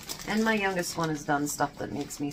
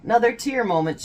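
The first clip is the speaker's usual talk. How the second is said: emotional exclaim; 6 semitones higher, 9 dB louder than usual. Real, not acted. Emotional outburst about son.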